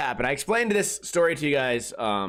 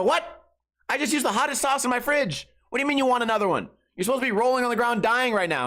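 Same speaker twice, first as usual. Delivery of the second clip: mock disbelief; 7 semitones higher, faster than usual. Host shocked guest wants more.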